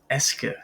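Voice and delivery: "est-ce que" said as "ess-kuh"; pronunciation model. Shown as a demonstration. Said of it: "practice pronouncing that with me".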